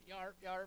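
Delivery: barking yarp laugh; imitating laughing yarp. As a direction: yarp like the old guy in the video. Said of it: "the one guy's like".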